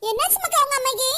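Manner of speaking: put-on tearful girl's voice, slowing and sobbing; crying child. Little girl tells grandma her father beat her mother, crying. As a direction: sob it out to grandma.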